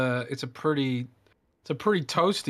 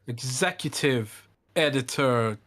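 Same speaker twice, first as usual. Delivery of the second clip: slow, self-important announcement; mock pompous title; slower than usual. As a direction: savor each word like a grand title. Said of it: "And don't you forget it, bro".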